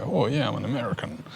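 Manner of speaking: a lightly put-on American accent, half-hearted; mock American accent. Mocking Thai pickup owners, a faint American accent. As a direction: play a Hilux owner bragging in a weak American accent. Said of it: "I can't do the accent, sorry".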